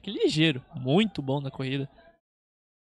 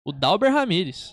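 excited; 4 semitones higher, 6 dB louder than usual. Real, not acted. Naming the scorer.

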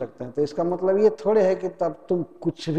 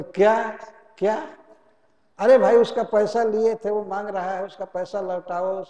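higher, loud parroting of the operator; mock shouting; 4 semitones higher, 4 dB louder than usual. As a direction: shout back his words as if you can't hear. Debtor mimicking the operator.

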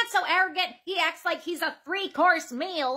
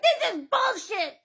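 high, drawn-out mock outrage; mock tantrum; 5 semitones higher, slower than usual. Customer giving up on getting help, mock tantrum. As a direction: imitate a customer's tantrum, pitched up and slow. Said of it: "he's either gonna rip the counter off or cry".

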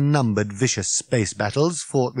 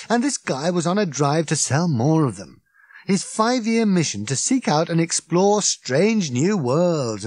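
raised, scornful Ford rant; 6 semitones higher than usual. Acted. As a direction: sneer at the creeps of the cosmos. Ford rants about salesmen.

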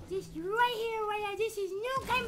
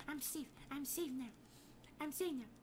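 relieved hush; 5 semitones lower, 9 dB quieter than usual. Acted. Relief after hiding.

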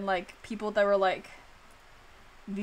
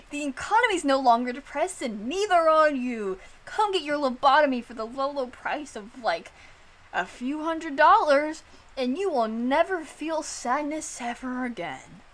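higher, louder hammed-up ad pitch; mock ad announcer; 4 semitones higher, 3 dB louder than usual. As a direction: sell it like a cheesy fifties commercial. Mock lobotomy advertisement.

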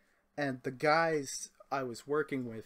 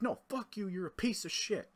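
much higher mock drunk yelling; drunk coworker insulting; 6 semitones higher than usual. Drunk coworker cursing the driver, high mock yell. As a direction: mimic a drunk guy cursing you out, pitched way up. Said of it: "He's like".

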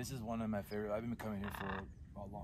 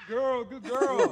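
high, slow sing-song praise; squeaky praising a dog; 12 semitones higher, 14 dB louder, slower than usual. Real, not acted. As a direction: coo praise at the bird. Praising bird.

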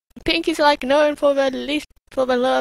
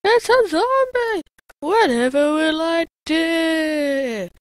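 mock damsel in distress; 3 semitones higher, slower than usual. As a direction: play the helpless victim, badly. Hammed-up helpless panic.

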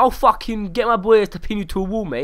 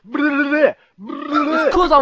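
angry, sweary outburst; real anger; 7 semitones higher, 4 dB louder, slower than usual. Real, not acted. Defending himself to taunting strangers, really angry. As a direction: fire back in real anger. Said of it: "It's 'cause I'm fucking angry".

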